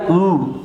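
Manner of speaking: "او" as German ö, a rounded long vowel; German umlaut "او", held as one vowel; umlaut sound demo. Shown as a demonstration.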